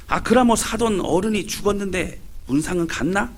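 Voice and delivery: lightly voiced Gyeongsang dialect old woman asking; a hint of a nosy Gyeongsang grandmother; Gyeongsang granny dialect. Granny asking about the funeral visit, mild Gyeongsang dialect. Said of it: "경상도 할매들의 대화입니다".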